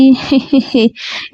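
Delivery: sheepish giggle; awkward little laugh to cover up; nervous chuckle; silly nervous laugh. A narrator's reading. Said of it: "పిచ్చి నవ్వుతో".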